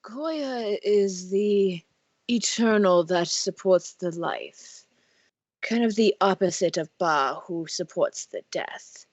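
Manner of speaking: put-on slow, reverent old gnome; an elderly priest explaining gods; very old man. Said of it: "we totally have an old man voice".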